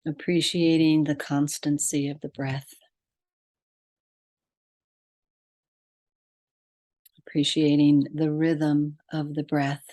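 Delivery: measured meditation guide, long pauses between phrases; guided meditation. Real, not acted. Podcast host leading listeners to breath and heart, guided meditation. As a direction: lead them inward phrase by phrase, leaving long silences.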